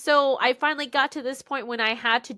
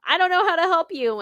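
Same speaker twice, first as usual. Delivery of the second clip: higher, louder exasperated family voice; imitating family voice; 9 semitones higher, 8 dB louder, faster than usual. Relatives giving up on her, loud and high. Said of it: "my dad's voice and my aunt's voice".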